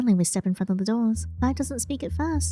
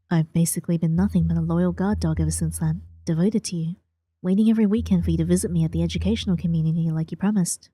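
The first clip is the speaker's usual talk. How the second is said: lower, hurt but tender voice; wistful young man; 5 semitones lower than usual. Acted. Clive recalls waiting for her.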